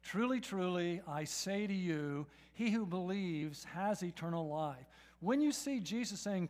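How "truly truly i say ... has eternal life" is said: reading aloud together. Shown as a demonstration. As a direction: say it out strongly with the whole room. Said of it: "Say it with me".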